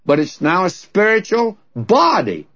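preacher stresses body over spiritual. Shown as a demonstration. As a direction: press the word "body" home. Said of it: "the emphasis is on body, not spiritual".

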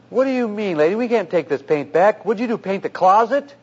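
mock-indignant challenge, pitch lifting; indignant store manager. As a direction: retell a manager scolding a customer. Acted paint manager refusing wife.

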